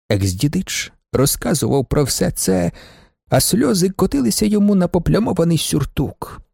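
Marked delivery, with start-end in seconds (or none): none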